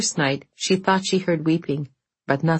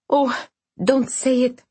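pleading; 9 semitones higher than usual. Acted. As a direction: beg her not to say it. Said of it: "pleaded Irina".

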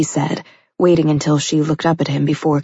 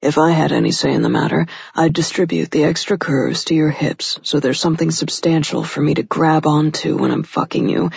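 lightly voiced male lover, frankly suggestive; a hint of a cocky man seducing; confident seductive lover. Man telling his lover what he desires, suggestively.

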